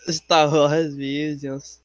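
very drawn-out title; slow announcer. Pretend. Echoing the title slower.

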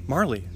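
Marley ending in a clear "lee"; pronunciation of Marley. Shown as a demonstration. Settling how the player's name is said, pronounced Marley with a final "lee". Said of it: "that's how you say it".

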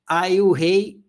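usual speaking voice

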